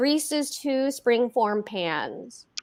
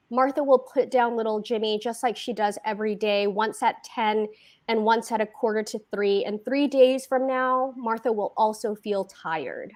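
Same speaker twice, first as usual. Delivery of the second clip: ordinary delivery, nothing marked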